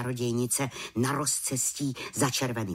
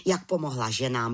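ordinary delivery, nothing marked

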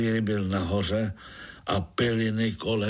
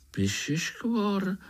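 interrupting in surprise; 11 semitones higher, slower than usual. A narrator's reading. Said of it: "skočil jí Pája do řeči".

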